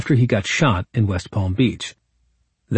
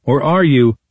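mocking nerdy voice. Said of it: "I said in a mocking, nerdy voice".

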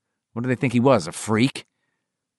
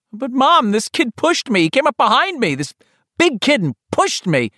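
put-on much higher, pleading boy near tears; 13 semitones higher, 4 dB louder than usual. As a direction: beg to be believed, about to cry. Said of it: "Richie was by then near tears".

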